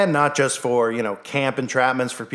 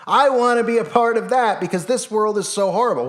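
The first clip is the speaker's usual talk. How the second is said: higher, eager parody of a brainwashed fan; mock eager follower; 9 semitones higher than usual. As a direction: gush like a convert begging to join. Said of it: "they'll be like".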